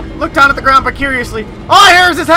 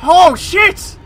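shocked shout; 2 semitones higher, slower than usual. Real, not acted. Player shouting as his character kicks a head off. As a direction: cry out in disbelief.

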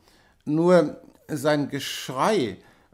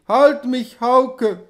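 higher, louder desperate cry; screaming; 8 semitones higher, 6 dB louder, much slower than usual. A narrator's reading. Feverish wife crying out to her husband, screaming. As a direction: cry out for him to hold her. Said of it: "schrie sie".

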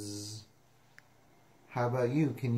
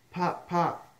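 higher-pitched pops; popping cork; 5 semitones higher, 4 dB louder than usual. Acted. Reader reviews the cork sound, popping higher. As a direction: pop it high like a cork. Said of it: "He can sound like a cork".

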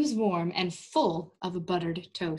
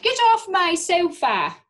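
higher, louder startled cry; 9 semitones higher, 8 dB louder than usual. Acted. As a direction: shoo the dog off the sofa. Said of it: "Missus Butterworth cried".

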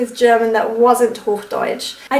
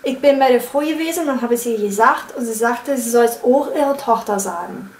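Berlin accent. Shown as a demonstration. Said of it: "the G's become J's".

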